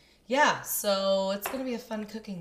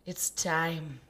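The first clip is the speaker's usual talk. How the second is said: hushed, whispered announcement; soft breath of a whisper; 3 semitones lower, 5 dB quieter than usual. Pretend. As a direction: whisper it like a solemn cue. Hushed quoting of a film line.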